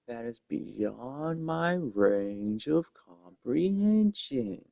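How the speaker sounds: very slow otherworldly voice; eldritch horror. Acted. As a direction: stretch every word like a cosmic being. Repeats the slow cosmic voice.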